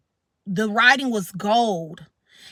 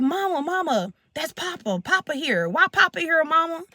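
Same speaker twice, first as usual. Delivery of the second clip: higher-pitched imitation of an eager child; excited little son; 4 semitones higher than usual. Son asking mama why Papa is here, excited imitation. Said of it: "he got excited 'cause he loved Papa".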